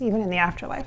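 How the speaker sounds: soft whispered demo; whispering. Shown as a demonstration. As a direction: whisper it like her. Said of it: "she does talk like this".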